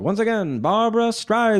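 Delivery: high, building announcer call; show announcer. Retold or imitated. Introducing a singer in her TV special, announcer's call. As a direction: belt out the star's introduction. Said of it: "They're like".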